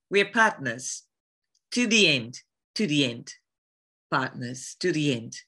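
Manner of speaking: put-on older woman's African accent; African-accented vow, aged a little; older African Sheva. Shown as a demonstration. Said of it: "a older African Sheva".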